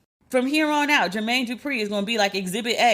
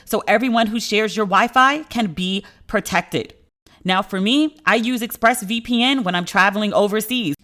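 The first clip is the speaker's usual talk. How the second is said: louder, punchy sponsor read; 4 dB louder than usual. Acted. Host pitching ExpressVPN to listeners, louder ad read. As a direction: sell it with energy.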